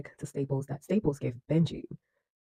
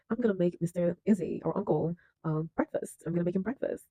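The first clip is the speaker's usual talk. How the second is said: put-on higher-pitched little girl voice; young daughter; 4 semitones higher than usual. Daughter offers to make breakfast, higher girlish voice. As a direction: lightly imitate an eager daughter, pitched up.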